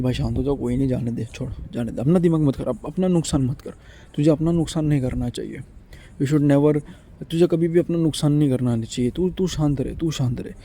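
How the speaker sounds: put-on calm yourself the way a parent calms a crying child; soothing self-talk.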